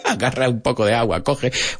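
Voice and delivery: laughing through the translation; amused and quick. Real, not acted. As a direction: giggle as you say it. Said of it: "laughing translation".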